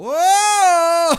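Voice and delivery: sudden high shout of surprise; surprised shout. Real, not acted. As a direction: blurt it out, amazed. Visual effect appears in game.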